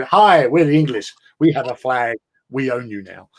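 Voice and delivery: mock English colonizer. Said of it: "had a whole skit about how England".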